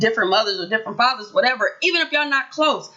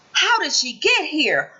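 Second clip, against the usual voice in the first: gasp, then a slow, high, hammed-up "how did she get here"; mock gasp of surprise; 6 semitones higher, slower than usual. Vlogger mocking the sister's sudden arrival, with a hammed-up gasp. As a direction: play it like a shocked gossip.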